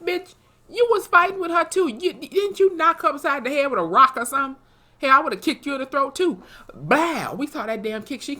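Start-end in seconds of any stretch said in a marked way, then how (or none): 0.1-6.4 loud, high mock yelling at her. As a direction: bark it back at her in mock outrage. Yelling at Montana in retold scene.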